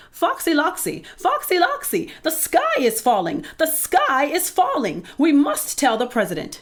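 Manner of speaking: very high, frantic group alarm; excited yelling. A narrator's reading. Birds warning a fox outside the airport, high excited yelling. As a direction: yell it like panicking poultry. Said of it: "yelled Chicken Licken".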